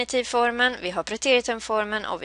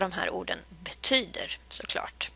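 whisper; 3 semitones lower, 10 dB quieter than usual. Real, not acted. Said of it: "whispered aside".

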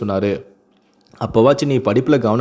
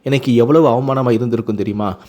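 measured, expressive family-story reading; story narration. A narrator's reading. Narrator tells listeners of a son and father reconciling, expressive storytelling. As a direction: read the tale aloud, lightly voicing the dialogue.

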